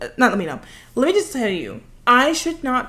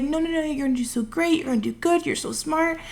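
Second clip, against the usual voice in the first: imitated reassurance; 6 semitones higher, 3 dB quieter than usual. Acts out mother-in-law's reassurance.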